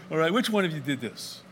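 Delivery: chuckling accusation through a laugh. Acted. Sailor laughing as he asks which crewman angered God, amused. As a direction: laugh while demanding who's guilty.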